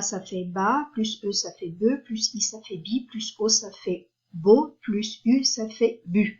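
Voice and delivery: ba, be, bi, bo, bu each said clearly with a rising tone; teacher's syllable drill, ba be bi bo bu; each syllable set apart for the class; sounding out syllables. Shown as a demonstration. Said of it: "B, donc plus A".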